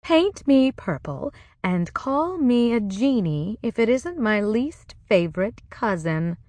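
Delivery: lightly voiced haughty cousin with northern accent; put-on northern accent. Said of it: "passed for a northern accent".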